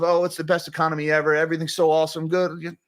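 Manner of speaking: quick, breezy mock cheer; lightly sarcastic, rattled off quickly; mocking press hype. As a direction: parrot the press's rosy spin, a little fast. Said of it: "the narrative in the press of".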